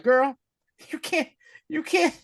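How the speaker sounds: very high, halting mock threat; a singer. Villain warns his clone, mock-menacing. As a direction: put on a high-pitched, hammed-up menacing man. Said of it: "He pulled the Ike Turner".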